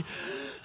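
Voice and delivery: worn-out runner's heaving breath; acted exhausted panting. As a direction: puff as if hitting the wall. Imitating dying at mile two.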